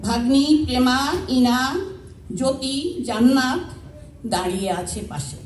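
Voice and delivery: measured recital in short phrases with pauses; simple spoken verse, pausing between phrases; poem recitation. Acted. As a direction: recite your own poem to a gathering, phrase by phrase. Recites own poem to audience.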